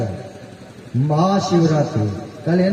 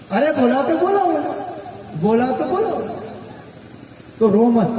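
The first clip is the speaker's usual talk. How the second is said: airy dismissal; 5 semitones higher than usual. Retold or imitated. Husband brushes off wife's apology.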